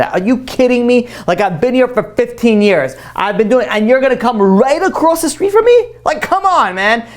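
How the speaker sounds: a shopkeeper fed up with the new competitor; indignant complaint. Retold or imitated. Rival shop owner complaining, acted.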